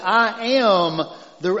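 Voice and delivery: a touch of a country drawl on "I am the"; a hint of a Southern country preacher; country accent. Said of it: "I sound really country when I say that".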